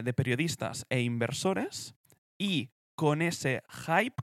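presenter reading a timeline, rising at phrase ends; deliberate documentary-style read; scripted read-aloud. Acted. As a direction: read out the history in measured phrases. Reads out the company history.

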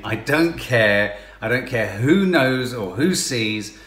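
slow, loud, defiant; defiant public shout. Retold or imitated. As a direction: declare it to the whole shop.

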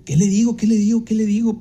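repeating the question, voice up in mild panic; a touch of flustered panic; flustered thinking aloud, what do I say; panicked inner thought. Retold or imitated. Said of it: "Y yo así".

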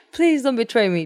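mock the king's neediness; mocking plea. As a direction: mocking King David's plea, sarcastic.

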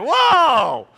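loud, high "whoa!"; startled protest. Retold or imitated. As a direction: yelp in mock alarm. Alarmed at being hired.

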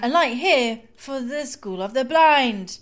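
slow, formal train announcement; tube announcer voice. Retold or imitated. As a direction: read it like a platform announcement. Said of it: "it goes".

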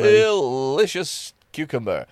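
slow sultry drawl; phone sex voice. Pretend. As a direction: savour it slowly, teasing. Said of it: "this is my phone sex voice".

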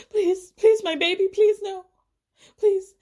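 high, loud, hammed-up begging; mock pleading. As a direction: imitate a mother begging for her baby. Mimicking her plea to paparazzi.

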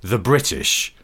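slow, deliberate declaration; grand, measured pronouncement; villainous rental king. Acted. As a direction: proclaim it like a melodramatic villain. Acting villainous scooter rental king.

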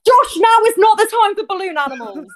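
mock-exasperated reprimand to a colleague. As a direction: tell him off, fed up. Exasperated at partner's antics.

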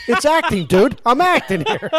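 mock Tom Hanks protest. Tom Hanks telling Ken Jeong it's acting, laughing protest. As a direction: insist it's only acting, amused. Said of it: "He goes".

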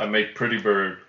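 squawky bird talk; parrot voice. Pretend. First parrot take.

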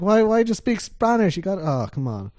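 retold outburst, high and loud, sinking at the end; exasperated. Traveler retells finding they speak Spanish, exasperated. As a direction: replay your frustrated protest. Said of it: "I was so mad".

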